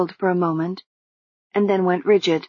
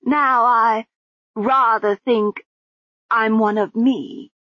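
slow, higher, muffled woman; muffled lady's voice; 4 semitones higher, slower than usual. Acted. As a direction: calmly urge her along, muffled. Lady Lejeune.

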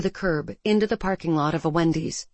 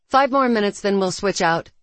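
calling out; 2 semitones higher, 4 dB louder than usual. Acted. Jurelia calls instruction.

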